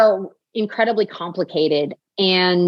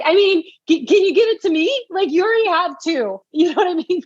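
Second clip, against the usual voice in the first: put-on childish pleading; 11 semitones higher than usual. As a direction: beg like a little child asking for a treat. Retelling her wish for her sister's baby.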